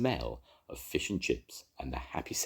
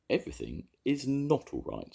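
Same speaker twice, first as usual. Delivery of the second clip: getting angry; 10 semitones higher than usual. A narrator's reading. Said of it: "beginning to feel angry".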